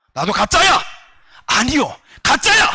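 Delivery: sudden high shout; shouting denial. Retold or imitated. Possessed woman denies, shouting.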